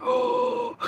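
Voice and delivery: put-on very high, loud surprised "Oh!" like to a toddler; mock toddler gasp. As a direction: pretend shock for a small child. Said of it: "like you do your toddlers".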